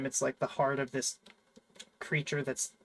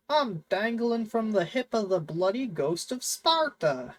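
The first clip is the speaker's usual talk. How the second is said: a clumsy attempt at Mimir's accent, pitched higher; 7 semitones higher than usual. Quoting Mimir's line about Kratos, in a botched Mimir accent. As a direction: have a go at Mimir's accent and don't quite land it. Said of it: "I'm terrible with the accents".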